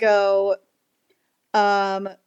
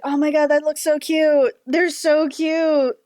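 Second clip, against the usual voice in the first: gushing; 5 semitones higher than usual. Retold or imitated. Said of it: "I was just like".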